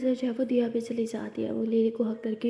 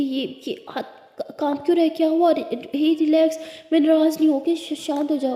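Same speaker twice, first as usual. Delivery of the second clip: higher and louder, alarmed concern; worried; 4 semitones higher, 3 dB louder than usual. Acted. Lakshmi sees Lily's trembling hands, alarmed and worried. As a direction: rush to comfort her. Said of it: "उसका हाथ shivering कर रहा होता है".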